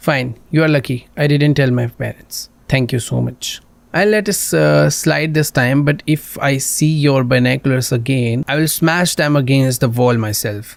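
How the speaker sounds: slow, measured read of a warning; a hint of a stern neighbour; mild threat. Girl warns the player about his binoculars, slow mock threat. Reads the girl's warning aloud.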